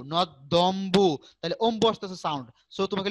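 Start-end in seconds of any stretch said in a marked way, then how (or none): 0.1-1.1 নদ্যম্বু said slowly, doubled দ held; slow pronunciation. Shown as a demonstration. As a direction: spell out নদ্যম্বু syllable by syllable, slowly. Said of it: "তুমি উচ্চারণ করো নদ্যম্বু". (নদ্যম্বু ধীরে ধীরে উচ্চারণ)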